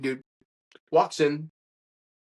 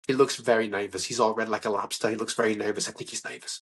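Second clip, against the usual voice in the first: low, lightly voiced confidential aside; Richard Kind; 5 semitones lower than usual. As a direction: lean in with a low, mild impression. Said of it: "Richard Kind leans into me, and he goes".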